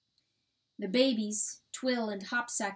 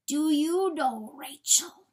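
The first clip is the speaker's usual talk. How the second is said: high, loud, slow question; intense pleading; 6 semitones higher, 6 dB louder, slower than usual. A narrator's reading. Coyote staring into John's eyes, intense pleading. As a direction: press the question slowly and urgently.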